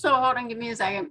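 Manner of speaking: speaking through a mouthful of food. Hosting a call, pausing right after taking a mouthful of food, talking with mouth full. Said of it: "I just put a mouthful of food in my mouth".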